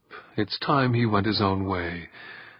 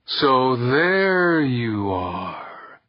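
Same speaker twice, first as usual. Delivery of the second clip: calling out; 2 semitones higher, much slower than usual. Acted. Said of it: "called a voice from halfway across".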